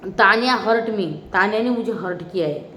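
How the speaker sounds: lightly voiced hurt grievance on "Tanya hurt me"; a hint of a wounded contestant complaining; quoting Konika. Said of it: "ये बोली कोनिका".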